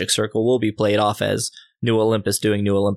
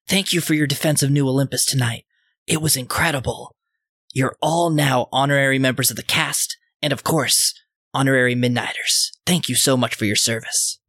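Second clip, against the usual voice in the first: Stitch; 3 semitones higher than usual. Acted. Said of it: "and says".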